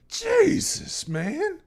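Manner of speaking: Jesus drawn out high and loud; loud exclamation. Real, not acted. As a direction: belt out Jesus in shock. Shocked exclamation at sad story.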